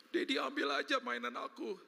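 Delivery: put-on high, slow child; small child voice. A child agreeing to lose his toy, high and slow. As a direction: answer like a meek little kid.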